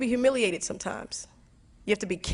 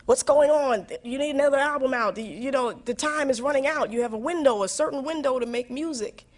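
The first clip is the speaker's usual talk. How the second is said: nagging everyone; 5 semitones higher than usual. Retold or imitated. People around her urging a new album, mildly hammed. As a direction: press her to release an album. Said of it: "everybody in my world thinks I'm crazy".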